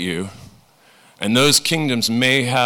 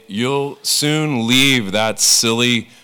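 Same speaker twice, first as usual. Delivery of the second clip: reassuring parent; slower than usual. Retold or imitated. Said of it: "We say".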